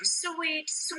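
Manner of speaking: soft, sweet wheedling; coaxing. Acted. Juliet coaxing her sulking nurse, coaxing. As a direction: wheedle gently.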